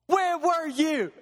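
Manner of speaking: drawn-out, heavy repeat; slow, weighty God. Acted. God pressing the question again, slow and heavy. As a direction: let each word land slowly. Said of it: "And God says".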